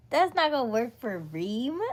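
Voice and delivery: laughing. Real, not acted. Turning down a viewer's anxiety remedy, laughing. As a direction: laugh while turning the idea down.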